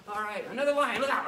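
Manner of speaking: put-on high, loud, thrilled storytelling for kids; kids' karate coach narrating an imaginary jungle run; excited jungle run. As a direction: lead the pretend adventure with big energy.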